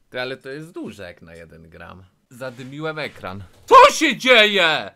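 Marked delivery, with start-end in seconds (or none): 3.7-4.9 shocked. Real, not acted. Shocked by the gift.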